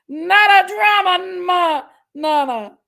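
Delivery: playful hollered name call; sing-song shouted greeting. Pretend. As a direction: belt out the name like a cheer. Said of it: "I like it".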